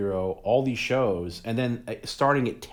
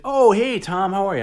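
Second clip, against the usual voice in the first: much higher, louder game-show-host hello; Bob Barker greeting; 12 semitones higher, 11 dB louder than usual. Retold or imitated. Imitating Bob Barker greeting a fan in his dressing room, high and loud. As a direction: greet him like a booming TV host. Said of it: "and he's like".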